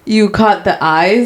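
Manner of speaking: slow, deliberate misquote; imitated misspoken line. Retelling a contestant's botched compliment, slow and deliberate. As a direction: draw out the mistaken phrase slowly. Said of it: "he was like".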